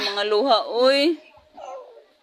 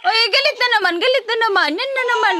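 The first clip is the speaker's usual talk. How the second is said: high teasing coo; 9 semitones higher, faster than usual. Real, not acted. Mother teasing her cranky baby in high baby talk.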